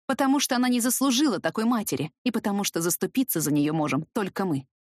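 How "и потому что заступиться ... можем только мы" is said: ordinary delivery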